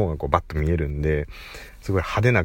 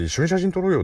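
flirty foreigner; 12 semitones higher than usual. Retold or imitated. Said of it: "っつって".

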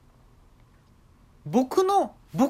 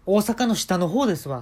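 Kansai dialect; 4 semitones higher, 4 dB louder than usual. Retold or imitated. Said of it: "すごい関西弁になって".

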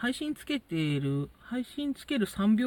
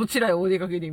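polite; 5 dB louder than usual. Retold or imitated. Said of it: "みたいなね".

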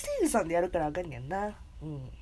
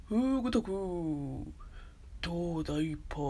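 attempted Wakamoto; 6 semitones lower, 5 dB quieter than usual. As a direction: stretch the vowels in a tentative impression. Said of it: "若本さん声出るかな".

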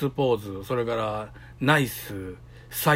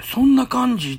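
high, louder "really, like that?"; retold disbelief; 10 semitones higher, 7 dB louder than usual. Told to the stream, his shock at her threat to leave, high and loud. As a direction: voice jumps up in stunned disbelief.

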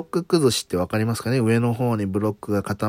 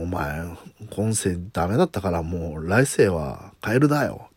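神様の声; 3 semitones lower than usual. Pretend. 神様の台詞を演じる.

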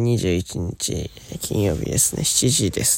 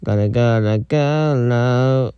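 slow raspy croak; hoarse voice; 3 dB louder, much slower than usual. Real, not acted. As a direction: drag out a hoarse rasp. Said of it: "声がガラガラですね". (ガラガラのしゃがれ声)

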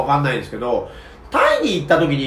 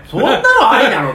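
laughing; 5 semitones higher, 4 dB louder than usual. Retold or imitated. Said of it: "っていう".

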